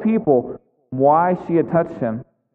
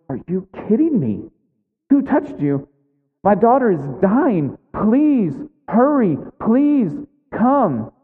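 acted desperate plea, rising higher and drawn out; Jairus, urgent pleading; 4 semitones higher than usual. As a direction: beg him, stretching each please. Jairus imagined begging Jesus to hurry.

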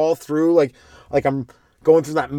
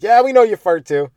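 mock retort; 7 semitones higher, 7 dB louder than usual. Crowd replies to chick.

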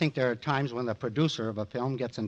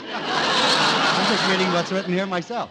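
chuckling through the words, slower; amused, half laughing; real laugh in the voice; 5 semitones higher, 4 dB louder, slower than usual. Real, not acted. Laughs while reading script.

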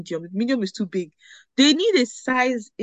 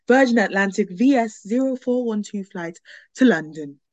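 airport announcement. Retold or imitated. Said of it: "one automated voice I hear".

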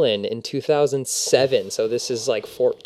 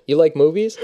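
higher, rising, curious; high eager question; 4 semitones higher, 4 dB louder than usual. Retold or imitated. Two guys meeting, acted exchange.

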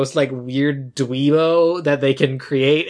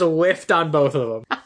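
laughing; slower than usual. Real, not acted. Cracking up at own joke.

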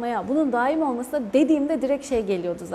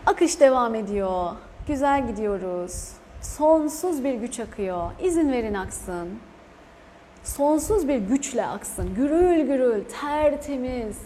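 guided meditation; slower than usual. Acted. Guides an energy flow meditation.

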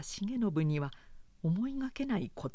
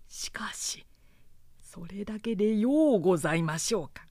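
loyal retainer pleading, rising; earnest retainer, pressing; 3 semitones higher, 6 dB louder than usual. Acted. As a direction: press the young lord earnestly. Retainer challenges his lord.

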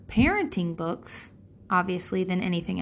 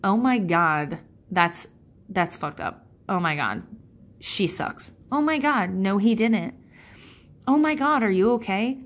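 friend's sympathetic outrage. Retold or imitated.

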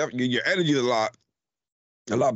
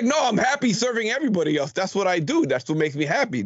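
mocking impression; 7 semitones higher than usual. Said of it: "He's like".

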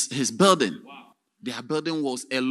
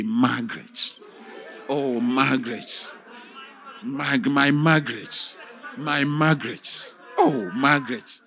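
longing cry for his wife; 4 dB louder than usual. Acted.

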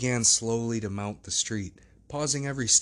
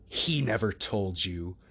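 slow, understated angry cry; mild flush of anger; 3 dB louder, slower than usual. Acted. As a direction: let a little anger slip out, slowly. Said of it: "cried Mister Hyde with a flush of anger".

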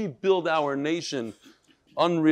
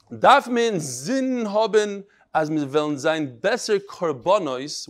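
Litvish Yiddish; slower than usual. Retold or imitated. Rabbi reads a martyr's last words to his class, Litvish Yiddish. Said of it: "in the Litvish Yiddish".

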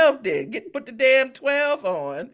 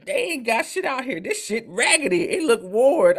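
mom complaining loudly; 3 semitones higher than usual. Retold or imitated. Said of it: "she got the nerve to be walking around there".

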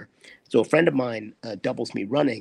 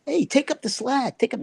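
high, strained call over rushing water; retold panicked order, pitched far up; urgent shout; 13 semitones higher than usual. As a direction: yell across the waterfall to the rope holder. Shouting to stunt guy over waterfall.

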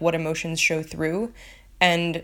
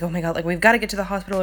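mock panic; much faster than usual. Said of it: "Shirley's, like, still, like, panicking".

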